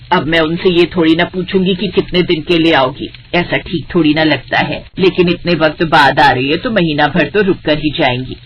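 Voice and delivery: lightly voiced stern mother-in-law, matter-of-fact. Mother-in-law tells both bahus the aunt is coming, lightly voiced.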